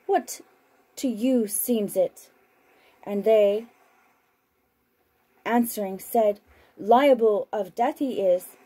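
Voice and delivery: measured, unhurried Bible reading; scripture reading. Acted. Broadcaster reading scripture to listeners, measured and solemn. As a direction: read the Gospel aloud, steady and solemn. Reads Gospel passage aloud on broadcast.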